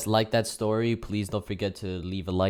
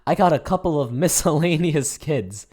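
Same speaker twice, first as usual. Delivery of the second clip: raised voice, mimicking the angry neighbour on the phone; imitating the man; 4 semitones higher, 4 dB louder than usual. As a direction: play the guy reporting kids to the police. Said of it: "He's like".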